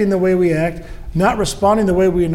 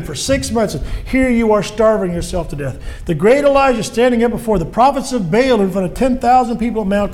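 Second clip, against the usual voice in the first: devil accusing. Acted. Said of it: "the devil roars, and he says things like".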